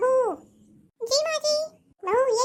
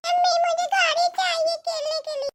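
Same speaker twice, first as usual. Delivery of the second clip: put-on pleading child; 4 semitones higher than usual. Child begs mother for toy car.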